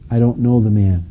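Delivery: measured, firm denial at normal volume; determined denial. Retold or imitated. Peter denying Jesus to the second girl, understated determination. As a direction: state it with understated resolve. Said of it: "he's more determined now than ever".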